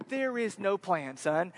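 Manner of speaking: slow, deliberate pronouncement to a son; measured fatherly tease; teasing dad. Retold or imitated. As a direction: spell it out slowly to wind him up. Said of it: "what I like to say to him".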